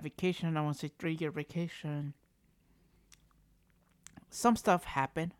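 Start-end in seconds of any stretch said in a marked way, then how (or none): 4.3-5.3 talking while chewing; words round a bite of food; mouth full. Real, not acted. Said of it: "I'm sorry I'm eating".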